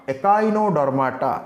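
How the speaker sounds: ଏକାଇନୋଡର୍ମାଟା slowly, with a K sound; model pronunciation. Shown as a demonstration. Teacher repeats for the class, slowly modelling ଏକାଇନୋଡର୍ମାଟା. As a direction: stretch ଏକାଇନୋଡର୍ମାଟା out for learners. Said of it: "correct ପ୍ରନାଉନ୍ସିଏସନ୍ କର".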